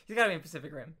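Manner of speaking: laughing. Shown as a demonstration. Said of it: "Say it as a sentence".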